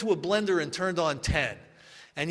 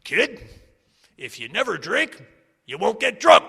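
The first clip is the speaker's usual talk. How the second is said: put-on cranky old-timer; 2 semitones higher, 4 dB louder than usual. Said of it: "they would say things like".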